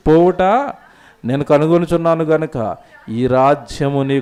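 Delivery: preacher reading God's judgment word by word; scripture reading. Acted. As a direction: pronounce the verse deliberately. Reads God's verdict from scripture.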